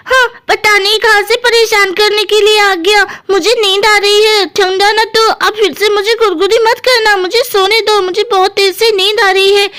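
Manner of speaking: a hint of a complaining sleepy sister; lightly voiced Pakodi. Pakodi tells Guddu to let her sleep, mildly annoyed. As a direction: lightly fend off a pestering brother.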